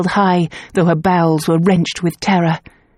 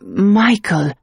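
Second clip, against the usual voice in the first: trance-like seer. Acted. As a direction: speak as if seeing it. Clairvoyant in trance.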